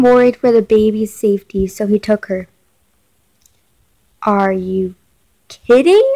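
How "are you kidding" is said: disbelief. Real, not acted. Reacting to the father taking the baby, disbelieving. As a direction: shoot up in disbelief.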